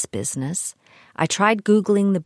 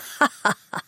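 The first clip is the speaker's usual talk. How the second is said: scornful laugh; 7 semitones higher than usual. Real, not acted. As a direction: burst of staccato ha-ha laughter. Scoffs at reporting to local authority.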